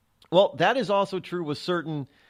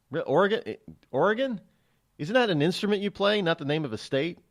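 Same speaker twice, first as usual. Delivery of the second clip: higher, baffled quizzing; puzzled questioning; 4 semitones higher than usual. Retold or imitated. Outsider hearing organ for a state, puzzled. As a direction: query it like a confused outsider. Acts a confused listener.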